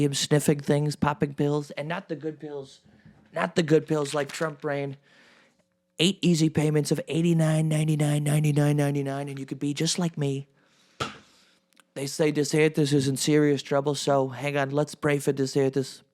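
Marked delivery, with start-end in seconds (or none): 6.0-10.5 mock ad-read patter; infomercial pitch. Selling Trump brain pills to viewers, mock infomercial patter. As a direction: rattle off the price like a TV ad.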